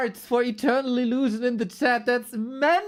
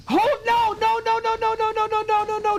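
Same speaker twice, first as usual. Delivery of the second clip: high, rapid string of no's; can't believe it, pitch shooting up; a real overwhelmed squeal of no's; overwhelmed excited; 10 semitones higher than usual. Real, not acted. Streamer overwhelmed by gift subs.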